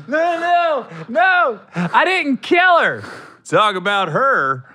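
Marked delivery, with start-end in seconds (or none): 0.1-3.0 high, slow, playful denial; high mock killer voice. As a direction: act out the killer denying it.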